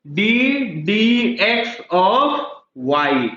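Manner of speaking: slow "डीडीएक्स of y" with "of" stretched and rising; foreign reading. Shown as a demonstration. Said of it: "foreign में". (विदेशी अंदाज़ में धीरे से: "डीडीएक्स of y")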